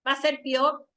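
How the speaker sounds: "peor" run together as pyor; one single sound. Shown as a demonstration. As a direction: say "peor" in one beat, like pior. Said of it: "es un solo sonido".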